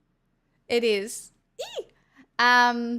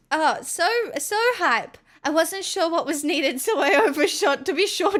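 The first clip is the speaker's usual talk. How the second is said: high, excited put-on Irish accent; 3 semitones higher than usual. Streamer thanking chat for gifted bits in an Irish accent. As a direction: gush in a hammy Irish voice. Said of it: "I can't do the accent anymore".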